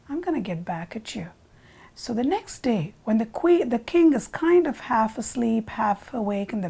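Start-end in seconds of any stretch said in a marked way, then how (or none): 0.1-1.3 hushed, bitter whisper; whispered vow. A narrator's reading. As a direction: swear revenge under your breath. Humiliated sweeper vows revenge.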